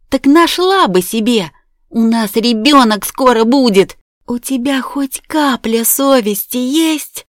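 high, loud, furious accusing voice; angry accusation. A narrator's reading. Jealous wife confronting the ex-wife, furious and loud. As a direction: fling the questions at her in fury. Karina confronts Masha in fury.

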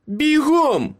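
very high, forceful order; snarled command. A narrator's reading. Meryl orders Ace to flee, snarling. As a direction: snarl it to send him running. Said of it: "Меріл прогарчала".

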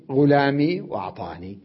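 both words ending in an audible ee; full forms with ya. Shown as a demonstration. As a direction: say غلامي وأعطاني with the final ee restored. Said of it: "يعني". (بإثبات الياء)

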